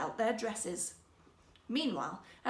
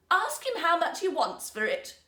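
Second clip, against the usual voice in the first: princess voice; 6 semitones higher, 7 dB louder than usual. Acted. Princess commanding court lady.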